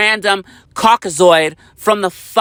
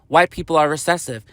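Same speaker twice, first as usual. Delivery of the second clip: hypothetical quote; 3 semitones lower than usual. Retold or imitated. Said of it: "sit there and say".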